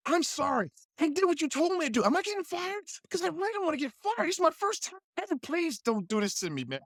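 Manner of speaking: hammed-up nervous apology; mock pleading. Actor begging the director not to fire him, mock pleading.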